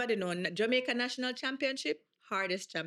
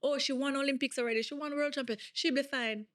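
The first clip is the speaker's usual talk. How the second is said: mocking the doubters; 4 semitones higher than usual. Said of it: "when everybody was saying".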